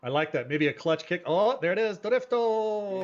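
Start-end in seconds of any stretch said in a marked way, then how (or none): 1.3-3.0 higher, excited drift call. Real, not acted. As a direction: cheer the drift.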